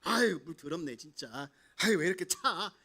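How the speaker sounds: loud grumbling complaint. Acted. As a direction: grouse like a proud general in cold dirty water. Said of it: "되게 투덜투덜하면서".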